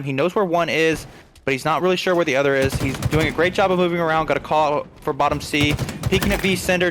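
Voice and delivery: lively live esports commentary; play-by-play. Real, not acted. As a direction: call the match action as it unfolds.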